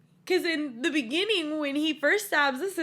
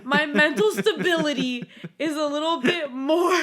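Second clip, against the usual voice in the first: laughing protest. Real, not acted. Laughing rebuttal to co-host.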